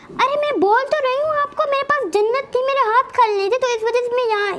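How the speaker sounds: high, heated wife arguing back. Acted. Wife argues with husband about the baby, high and heated.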